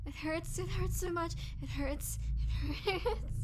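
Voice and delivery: strained, pitch climbing on each hurts; repeated pained whimpers, rising. Acted. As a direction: plead through the pain, voice climbing. Vampire in pain from hunger.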